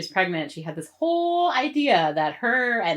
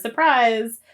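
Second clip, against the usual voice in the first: sing-song higher surprise; spring the punchline, higher and louder; mock surprise; 6 semitones higher, 6 dB louder than usual. Mocking the show's twist, a higher sarcastic surprise. Mock reveal of stuck turnstile.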